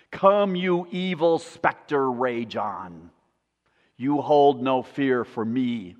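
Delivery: slow, emphatic scripture-style reading; solemn declamation, building in force; dramatic recitation. Acted. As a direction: declaim it with measured defiance.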